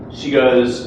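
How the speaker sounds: normal talking voice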